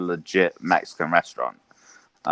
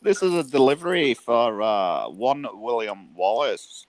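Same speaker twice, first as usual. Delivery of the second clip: mock Scottish delivery man, slowing at the name; Scottish accent; 5 semitones higher, 4 dB louder than usual. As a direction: play up the Scot announcing William Wallace. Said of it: "I always used to do Scottish".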